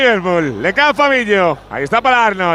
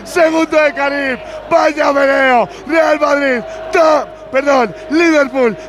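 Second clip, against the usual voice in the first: excited replay call with shouts; live goal commentary; slower than usual. Real, not acted. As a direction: narrate the goal again, thrilled.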